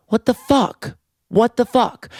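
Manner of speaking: high-pitched, incredulous squeal; mock indignation at being ripped off; retold outrage. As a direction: imitate your own shocked disbelief.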